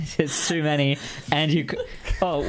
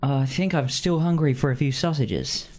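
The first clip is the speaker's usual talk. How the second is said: put-on Cockney accent. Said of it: "my Cockney accent".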